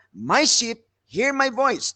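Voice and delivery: slow, assured "My sheep hear my voice" as a settled fact; preacher contrasting promise with command; declaring a promise. Shown as a demonstration. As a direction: state it as a promise, not an order. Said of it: "it is a promise of declaration".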